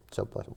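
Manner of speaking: "South Boston" run together, Sahb-ahst'n; Boston accent. Shown as a demonstration. Native drills the host on his neighborhood, Boston accent. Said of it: "It is pronounced South Boston".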